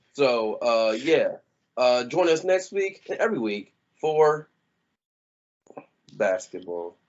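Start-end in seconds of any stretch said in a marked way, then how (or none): 2.1-7.0 somber, funereal, eulogy-like delivery. A host tells listeners to join next week for basketball, sounding like a eulogy. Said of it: "you about to give the game's eulogy".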